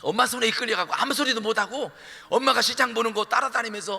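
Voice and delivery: usual speaking voice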